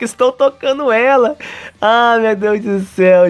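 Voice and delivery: high-pitched voice of flustered Kazuya; mock panicked squeal. Kazuya realising he is touching Mizuhara, high mock panic. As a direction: squeal it in acted disbelief.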